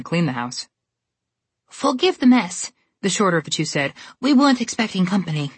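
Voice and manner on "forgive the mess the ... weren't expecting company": fussy stepsister. Acted. Stepsister apologizes.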